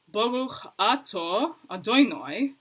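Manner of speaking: slow Ashkenazi "Baruch atah Adonai" with "atah" as "ato" and "Adonai" as "Adoinoi"; Ashkenazi Hebrew imitation. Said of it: "They would say".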